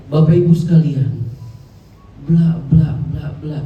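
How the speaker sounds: loud, formal speech opening; formal audience address. Shown as a demonstration. Speaker addressing listeners as an audience, formal and loud. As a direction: announce it to an audience at a distance. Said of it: "saya nganggap teman-teman misalkan adalah audiens".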